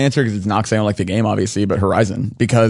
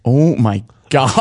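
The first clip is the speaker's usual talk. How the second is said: weary hunter; much slower than usual. Retold or imitated. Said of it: "just to have him be like".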